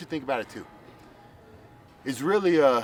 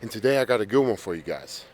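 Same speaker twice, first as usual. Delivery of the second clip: out of breath. Real, not acted. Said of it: "Sorry, I'm all winded".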